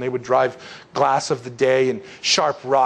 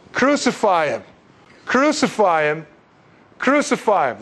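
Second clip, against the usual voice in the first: higher-pitched chant, a restrained imitation of shouting; mock crowd shout; 4 semitones higher than usual. Crowd answers Pilate with a demand for execution, half-raised mock shout. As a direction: call it out like a mob, held back. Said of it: "they shouted".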